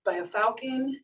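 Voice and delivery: hushed and pleading, speeding up; mom's quiet distress. Retold or imitated. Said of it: "And she's like".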